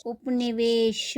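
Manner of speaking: उपनिवेश slowly, clear उ; slow model word. Shown as a demonstration. Teacher models उपनिवेश slowly before adding the suffix. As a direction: drag out उपनिवेश, leaning on उ. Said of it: "उ आता है".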